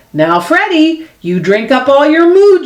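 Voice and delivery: mother nudging Freddie to finish his milk; a touch of motherly coaxing. Acted.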